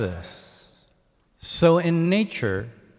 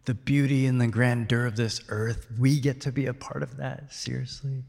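hushed disbelief; 7 dB quieter than usual. Acted. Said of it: "this poet is saying".

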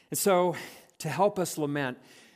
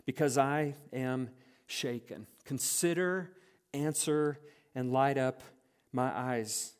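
scripture reading. Acted. Reads the psalm petition.

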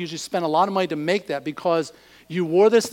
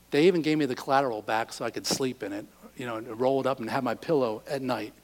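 quiet, thankful voice; grateful borrower, softly; 4 semitones lower, 5 dB quieter than usual. Retold or imitated. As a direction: speak it gently, touched by kindness.

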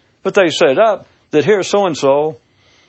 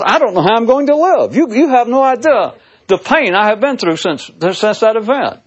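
mock grieving mother; 9 semitones higher than usual. Mother voiced, higher, louder.

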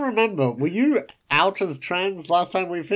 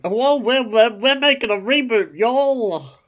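put-on higher, lightly British-tinged transatlantic accent; a hint of a transatlantic accent, a bit louder; 8 semitones higher, 4 dB louder than usual. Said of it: "Is that how Dean Devlin sounds?".

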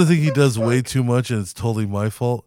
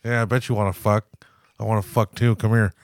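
lightly voiced cocky taunt, a touch of laughter; mock bravado, tossing the dares back; roommate's taunting voice. Roommate daring his friend back, lightly mocking bravado. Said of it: "something about his, the voice".

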